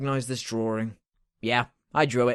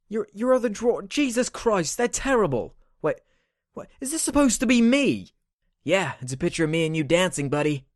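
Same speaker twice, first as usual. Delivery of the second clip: much higher, strained comic voice; higher put-on voice; 7 semitones higher than usual. Friend rants about the drawings in a high squeaky voice. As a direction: squeak it out in disgust. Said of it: "what is going on with your f***ing voice".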